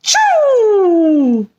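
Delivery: a big hammed-up sneeze; mock thunderous achoo. A narrator's reading. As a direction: sneeze it out like a giant vacuum. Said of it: "The vacuum replied with a thunderous".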